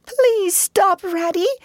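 high, pleading Mole voice; anguished plea. Acted. Mole pleading with Ratty to stop, high and anguished. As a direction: beg him to stop, heartbroken. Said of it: "pleaded the poor mole in anguish of heart".

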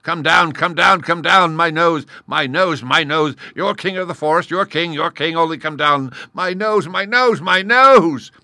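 high, loud, frantic wailing; moaning plea. Acted. Lion begging the stinging gnat to stop, wailing. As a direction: beg in agony, building to a final howl. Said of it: "the lion began to moan".

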